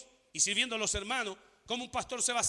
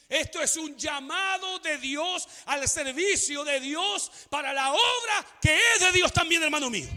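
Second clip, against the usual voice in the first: drawn-out, rising preacher's proclamation; forceful preaching; 4 semitones higher, 5 dB louder than usual. Real, not acted. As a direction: declare it slowly from the pulpit, building.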